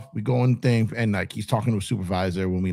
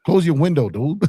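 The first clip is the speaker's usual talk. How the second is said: louder, higher order to shut it; demanding; 6 semitones higher, 4 dB louder than usual. Retold or imitated. Telling the marshal to shut the window, loud. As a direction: bark the order at him. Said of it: "and I'm talking like".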